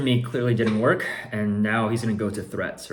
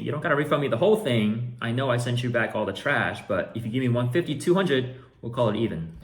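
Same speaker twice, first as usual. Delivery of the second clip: higher, louder mock buyer voice; pushy buyer bargaining; paraphrasing the buyer; 4 semitones higher, 4 dB louder than usual. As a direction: play the haggling buyer. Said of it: "So he's saying".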